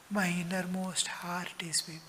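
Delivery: hushed whisper on the inner heart. Real, not acted. Preacher whispering to listeners about the heart. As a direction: drop to a breathy whisper.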